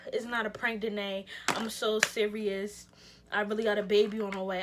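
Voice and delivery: put-on low, earnest boyfriend voice; imitated boyfriend. Boyfriend insisting to her it's no prank, low and serious. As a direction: drop the pitch to quote him insisting.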